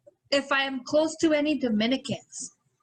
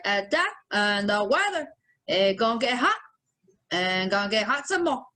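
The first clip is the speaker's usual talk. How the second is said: put-on Dominican accent; 2 semitones lower than usual. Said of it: "Tracy Morgan played Dominican Lou".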